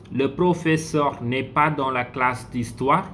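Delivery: "le professeur n'est pas dans la classe d'histoire" rising at the end as a question; French question, pitch rising on "d'histoire"; question intonation. Shown as a demonstration. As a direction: lift "d'histoire" to make it a question. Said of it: "It's a question".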